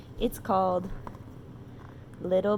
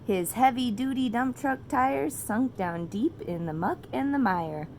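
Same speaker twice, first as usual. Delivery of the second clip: put-on reading to children. A narrator's reading. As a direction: read it like a bedtime story to a toddler.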